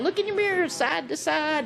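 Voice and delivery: lightly acted driving instructions; imitating Bill Murray. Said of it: "And he's going".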